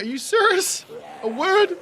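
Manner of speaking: high, laughing mock disbelief; can't believe it, laughing.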